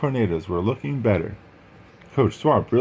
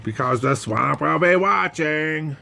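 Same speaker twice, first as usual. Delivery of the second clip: higher, firm threat to the team; stern coach warning; 7 semitones higher, slower than usual. Acted. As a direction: warn them never to horse around.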